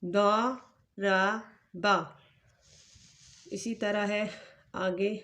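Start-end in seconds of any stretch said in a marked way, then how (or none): 0.0-2.0 syllable by syllable. Shown as a demonstration. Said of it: "تو کیا بنے گا؟".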